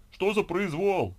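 slow, high-pitched outraged bellow; loud, drawn-out cry of outrage; yelling. A narrator's reading. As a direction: yell in protest from the back of a queue. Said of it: "заорал кто-то за спиной Ольги".

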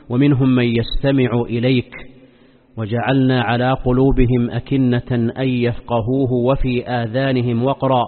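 measured, chanted Quran verses; Quran recitation. Acted. (تلاوة قرآنية مرتلة)

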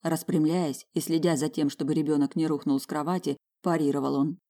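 ordinary delivery, nothing marked

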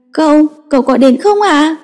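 put-on high, childlike pleading; a small boy begging his uncle to come; sulky child asking to be fetched; little boy voice. Boy repeats his plea.

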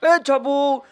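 high, gleeful monkey voice calling out; mocking the stuck vulture, pitched high; laughing monkey call. A narrator's reading. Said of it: "હસતા હસતા કહ્યું". (હસતો વાંદરો, ઊંચા અવાજે બૂમ)

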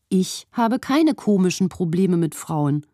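komischen leaned on, slow and deliberate; stress on komischen. A narrator's reading. Wife correcting Ben, leaning hard on komischen. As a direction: press the word komischen, unhurried. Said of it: "mit Betonung auf komisch".

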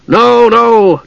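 high, hasty protest; alarmed cry. A narrator's reading. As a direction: cry out to head it off. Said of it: "Dugan cried".

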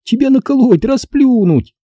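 put-on high, scornful girl's voice; girl mocking. A narrator's reading. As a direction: brag how easy he is. Стеф дразнит. (насмешливая девочка)

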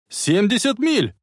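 high, drawn-out warning yell. A narrator's reading. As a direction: holler the speed, stretching the words. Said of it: "заорал Марти". (протяжный тревожный крик)

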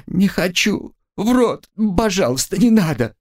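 high, panicked cries of no; frantic refusal. Acted. Katya refusing the soldier's bit, high and frantic. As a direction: push the bit away in terror.

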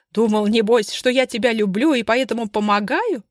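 loud, high sneering taunt; mocking scorn. Bazhova mocking her husband's love, loud sneer. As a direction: sneer at his naivety.

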